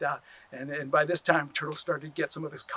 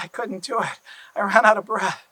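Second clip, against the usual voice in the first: character voice; 6 semitones higher, 10 dB louder than usual. Acted. Turtle admits failure.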